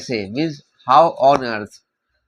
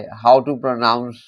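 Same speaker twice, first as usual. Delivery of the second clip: very slow, each word drawn out; slow pronunciation model; slow careful model; much slower than usual. Shown as a demonstration. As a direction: say it slowly so students copy it. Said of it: "मीन्स कैसे बोले".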